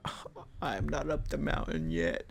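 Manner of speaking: a touch of a whiny quitter; mock whiner. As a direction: mimic the grumbler quietly. Mocking a complaining hiker.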